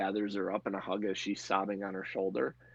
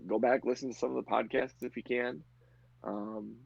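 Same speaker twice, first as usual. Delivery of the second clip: ordinary delivery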